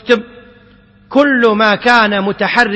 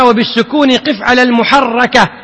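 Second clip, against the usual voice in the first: reciting the verse. Shown as a demonstration. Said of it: "قال هنا".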